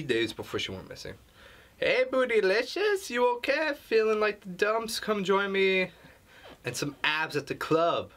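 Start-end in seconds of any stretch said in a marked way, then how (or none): 1.8-8.1 much higher, hammed-up party-girl voice; squealing mock girlfriend; mock girly friend voice. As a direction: parody a gushing girlfriend texting. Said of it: "is this really how women talk over the phone".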